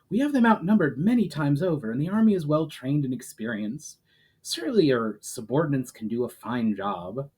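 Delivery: steady storybook reading voice; measured audiobook narration; story narration. A narrator's reading. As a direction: read the chapter like a storyteller. Author reads chapter aloud.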